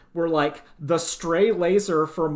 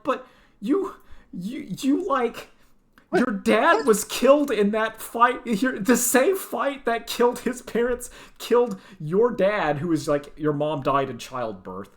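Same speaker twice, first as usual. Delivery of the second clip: exasperated protest; 4 semitones higher than usual. Retold or imitated. Fan arguing with the girl on screen, high exasperated protest. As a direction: plead the obvious point in disbelief. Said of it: "I'm like".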